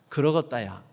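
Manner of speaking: Jeolla "그러겄다야" said low with a falling end; Jeolla dialect. Shown as a demonstration. Preacher modelling God's reply for repetition, Jeolla falling. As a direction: let Jeolla "그러겄다야" drop at the end, settled. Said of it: "따라서 한번 해보시겠습니다".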